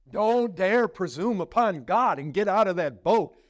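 mock stern warning. Preacher mocking fearful church folk with a stern warning. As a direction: warn them off the boat like a scold.

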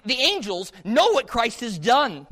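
usual speaking voice

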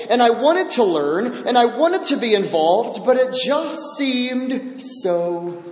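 a touch of imitated tears, lonely and let down; tearful lament. Woman telling elders nobody helped her, mildly tearful. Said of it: "she began sobbing".

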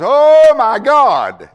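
high, loud, drawn-out "Oh my God!"; stretched-out squeal of mock surprise; mock game-show gasp. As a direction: gush it slowly like a thrilled contestant. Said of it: "all they can say is".

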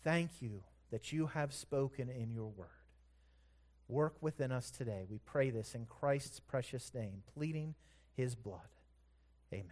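low, soft closing prayer. Real, not acted. Closes an opening prayer.

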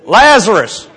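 forceful acted summons, loud at the end; calling out. Second man trying at Lazarus' tomb, loud acted summons. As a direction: command him out of the tomb.

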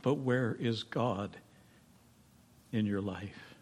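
hushed question. Real, not acted. Preacher's hushed challenge.

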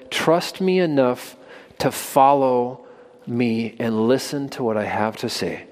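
slow, soft and tender call to trust; gentle invitation. Acted. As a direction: invite them gently, drawing it out.

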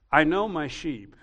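ordinary talk

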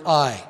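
"I" hit hard on its own; emphatic I. Shown as a demonstration. Preacher stressing Jesus' word, emphatic. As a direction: punch "I" as the one commanding. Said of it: "he is very emphatic with the word".

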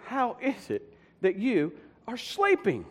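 slow, drawn-out disbelief; incredulous reproach. Acted. Captain to the sleeping Jonah, slow and incredulous. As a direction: spell it out slowly, astonished.

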